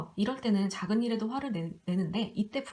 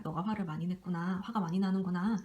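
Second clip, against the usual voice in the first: a calm parent's understanding voice; empathetic. Shown as a demonstration. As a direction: soothe an upset child. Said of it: "이렇게 좀 공감해주는 게 좋아요".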